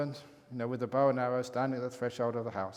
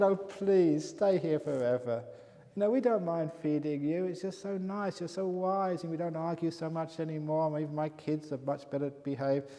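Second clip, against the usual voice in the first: a family pleading with their beloved monk, raised and eager; 4 semitones higher than usual. Acted. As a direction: beg him sweetly not to leave. Family begs monk to stay.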